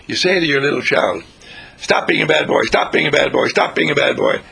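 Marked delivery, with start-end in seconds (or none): 1.8-4.4 scolding parent. Retold or imitated.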